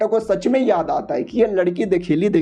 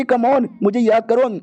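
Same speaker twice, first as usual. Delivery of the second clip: slow, higher coaxing plea; pleading; 3 semitones higher, slower than usual. Acted. Witch coaxing the hero to remember, slow and pleading. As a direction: drag out the come on, begging.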